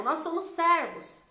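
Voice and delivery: high, slow sing-out answer; congregation's chorus. Retold or imitated. Whole church answering the pastor, imitated chorus. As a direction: imitate a crowd answering in drawn-out unison.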